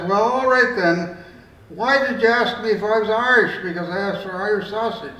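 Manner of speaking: hammed-up indignant demand, not too big; righteous indignation. Irishman cornering the assistant, mock righteous indignation. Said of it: "bursting with righteous indignation".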